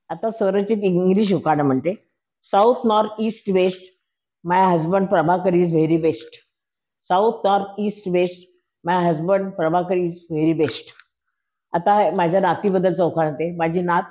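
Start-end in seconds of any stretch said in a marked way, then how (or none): 2.6-10.9 very slow, deliberate chanted English verse; rhyming ukhana. Acted. Grandmother recites her English ukhana for husband, slow chant. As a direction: spell out each word of the rhyme slowly.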